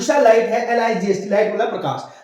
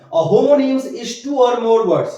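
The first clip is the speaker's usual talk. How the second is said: very slow, word by word; slow dictation for students; much slower than usual. Shown as a demonstration. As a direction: dictate slowly for notes. Teacher dictates definition again.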